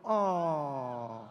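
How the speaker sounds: a fake tearful "Oh."; hammed-up crying sound; mock sob. Shown as a demonstration. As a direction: pretend weep for the crowd. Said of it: "ganun ako".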